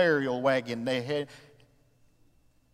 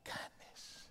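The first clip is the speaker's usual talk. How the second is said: breathy whisper of the single word; 18 dB quieter than usual. Acted. Preacher urging the congregation toward God's kindness, soft whisper. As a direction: drop to a hush on kindness.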